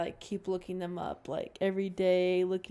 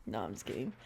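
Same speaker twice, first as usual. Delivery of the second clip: lower, softer mock repeat of the take-back; quiet mock repeat; 9 semitones lower, 7 dB quieter, much faster than usual. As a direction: drop the voice low and soft as a joke echo.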